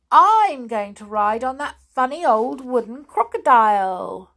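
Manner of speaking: cheerful and sure of herself; little girl Jill. A narrator's reading.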